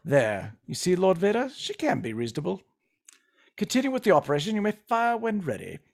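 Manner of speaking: smug British villain; cool, satisfied British commander; British accent. Acted. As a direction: give the order in composed British tones. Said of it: "you can do a British accent".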